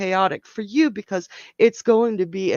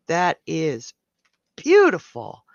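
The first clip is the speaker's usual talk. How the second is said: excited; 3 semitones lower, 5 dB louder than usual. Real, not acted. Admiring reading.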